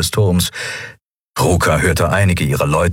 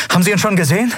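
asking character voice; 13 semitones higher, much faster than usual. Acted. Figur fragt in Dialog.

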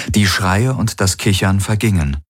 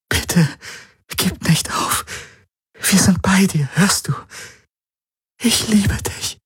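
whisper; 12 semitones higher than usual. A narrator's reading. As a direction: whisper it into his ear. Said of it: "flüsterte in sein Ohr".

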